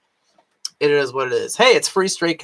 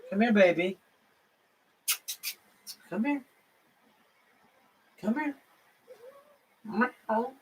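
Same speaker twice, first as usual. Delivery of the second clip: very high, much softer coaxing; 8 semitones higher, 9 dB quieter than usual. Real, not acted. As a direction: coo to lure the kitty. Coaxing the cat, meowing.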